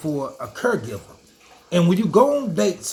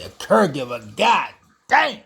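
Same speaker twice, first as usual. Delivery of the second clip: shocked; 4 semitones lower than usual. Real, not acted. Shocked reaction to friend's story.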